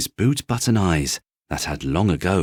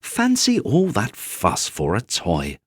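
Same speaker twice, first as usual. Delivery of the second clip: Nana; 3 semitones higher than usual. Acted. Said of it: "she said".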